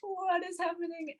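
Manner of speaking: slow, unvoiced stunned whisper; slow shocked whisper. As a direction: whisper it in disbelief. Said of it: "I was like".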